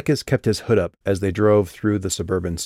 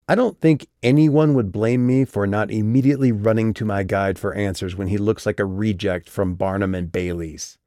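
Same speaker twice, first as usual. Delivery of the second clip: sharp, defensive retort. Acted. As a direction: push back hard. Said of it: "stiffened defensively".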